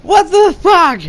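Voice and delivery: high and loud, slowed, drawn out what the fuck; mock outraged girlfriend, slow and high; stunned disbelief. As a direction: act out her total disbelief. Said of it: "She's like".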